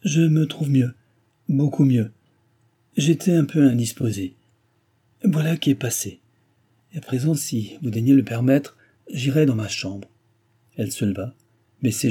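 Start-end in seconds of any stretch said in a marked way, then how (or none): 0.0-10.1 falsely steady, a bit higher and louder; a brave show of composure; forced firmness. Acted. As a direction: pull yourself together and sound sure. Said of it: "avec une fermeté affectée".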